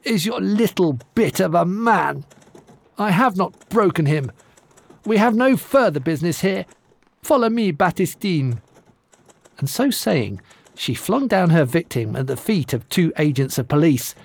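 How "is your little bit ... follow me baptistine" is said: scornful giantess. Acted. Giantess hands back the groom.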